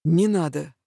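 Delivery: firm, settled answer. Acted. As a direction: close the matter firmly. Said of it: "твёрдо повторил Авинар".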